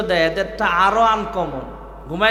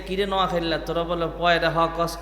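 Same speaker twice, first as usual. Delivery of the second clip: Noakhali dialect; 4 semitones lower, 5 dB quieter than usual. Retold or imitated. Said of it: "এটা নোয়াখালীলা ভাষা".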